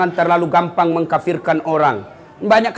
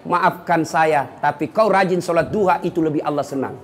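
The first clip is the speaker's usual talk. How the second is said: gentle humble phrasing; 3 semitones lower than usual. Shown as a demonstration. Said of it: "kita orang Indonesia cukup pakai".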